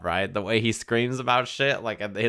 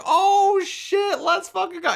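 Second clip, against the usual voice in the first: way higher, loud thrilled yell; hyped outburst; 4 dB louder, slower than usual. Retold or imitated. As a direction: explode with hype as the music kicks in. Hyped as the theme returns.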